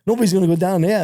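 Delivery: mock yell down a shaft; retold yell. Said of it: "I'm yelling down the thing".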